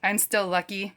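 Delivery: put-on lightly done Irish accent. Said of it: "That's the best Irish accent I can do".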